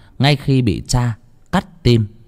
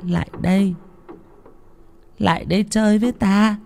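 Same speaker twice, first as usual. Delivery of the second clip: high, haunting beckoning voice, much higher; eerie ghost; 10 semitones higher, 3 dB quieter than usual. Acted. Ghost girl beckons cook and Thúy, eerie coaxing. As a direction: lure them in softly like a ghost. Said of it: "ma mị".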